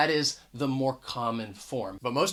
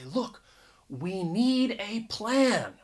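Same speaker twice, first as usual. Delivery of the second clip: slow, higher, "a" as AY before "plan"; anxious emphasis; 4 semitones higher, slower than usual. Acted. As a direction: stress "a plan" slowly, pronouncing "a" as "ay". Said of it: "maybe they're very anxious".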